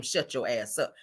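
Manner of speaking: slow, pressed "Shut your ass up"; "Shut your ass up" dropped low and slow. Shown as a demonstration. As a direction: put ass in the middle. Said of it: "he'll shut up faster if you tell him".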